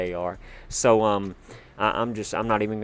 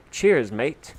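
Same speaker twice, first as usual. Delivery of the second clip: mock Aussie; 3 semitones higher, 5 dB louder than usual. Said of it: "Sounds like we got an Aussie in the house".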